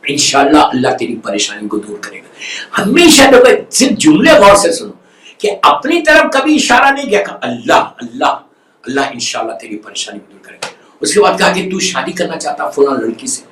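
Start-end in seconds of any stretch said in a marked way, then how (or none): 0.1-2.3 low, gentle reassurance; gentle soft-spoken. Acted. The visitor soothing the troubled patient, gently and low. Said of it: "اتنے آرام سے کہا". 7.4-10.7 low and soft, a quiet blessing; soft-spoken comfort. Acted. The visitor blessing the troubled man, low and soft. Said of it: "اتنے soft spoken تھے".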